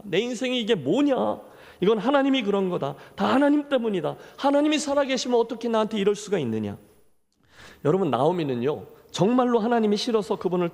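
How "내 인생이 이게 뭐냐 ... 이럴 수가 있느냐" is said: higher, pouring out pent-up grievance; anguished outburst. Acted. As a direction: let the complaint spill out raised and pleading. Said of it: "참았던 원망의 말을 쏟아낸 겁니다".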